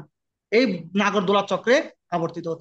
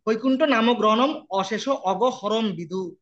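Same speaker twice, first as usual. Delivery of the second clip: very slow, measured Sanskrit line; slow verse recitation; slower than usual. Acted. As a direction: draw each word out like scripture. (খুব ধীরে শ্লোক পাঠ)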